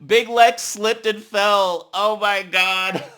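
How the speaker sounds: loud, shocked squeal at the screen; real disbelief, loud and drawn out; excited shout. Real, not acted. Viewer yelling at a fall on the show, loud and excited.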